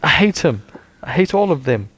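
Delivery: hammed-up hateful reading; dramatic anger. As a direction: spit it with mock hatred.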